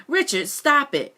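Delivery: mother shouting at her son; shouted. Acted. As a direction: call out to stop him. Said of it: "she shouted".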